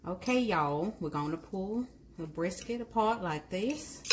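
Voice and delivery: playful put-on Southern accent. Home cook playing Southern host while pulling brisket, mock Southern accent. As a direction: try on a Southern twang for fun. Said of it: "Has anybody else ever wanted a southern accent?".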